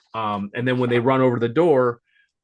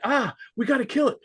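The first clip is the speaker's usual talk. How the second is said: first take; 12 semitones higher than usual. Retold or imitated. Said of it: "says the line twice".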